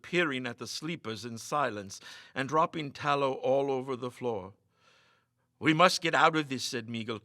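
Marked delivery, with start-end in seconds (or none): 5.6-6.6 urgent. Acted. Urgent escape from haunted house.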